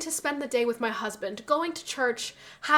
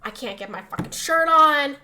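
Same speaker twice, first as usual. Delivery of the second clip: mock grouchy rant; 5 dB louder than usual. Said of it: "he was like".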